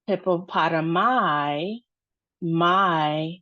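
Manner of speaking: hippopotami with a long, stretched "my" ending; long final I. Shown as a demonstration. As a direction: draw out the last syllable of hippopotami, then repeat it. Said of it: "is a long sound".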